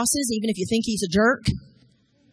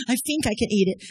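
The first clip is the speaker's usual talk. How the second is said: put-on child with lisp; 4 dB louder than usual. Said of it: "He had a little speech impediment".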